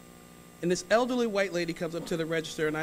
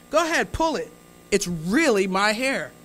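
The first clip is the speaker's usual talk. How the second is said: insistent dare; 3 dB louder than usual. Retold or imitated. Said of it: "offering ponytail".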